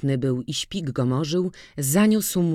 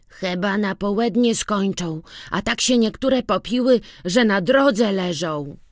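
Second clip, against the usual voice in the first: put-on boy's lively voice; 6 semitones higher, 3 dB louder than usual. A narrator's reading. Boy reports on wedding.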